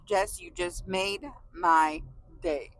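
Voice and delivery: slow, tender and sincere; slow heartfelt. Real, not acted. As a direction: say it slowly from the heart.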